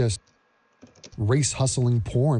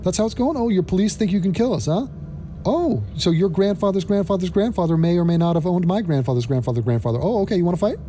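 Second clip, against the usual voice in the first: mock indignant black cat; 4 semitones higher than usual. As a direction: build a sassy, outraged dare, climbing in pitch. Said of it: "The black cat's like".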